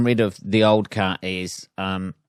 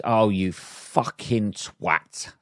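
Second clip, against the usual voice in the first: muttered insult; 4 dB quieter, much slower than usual. Shown as a demonstration. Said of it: "when said correctly".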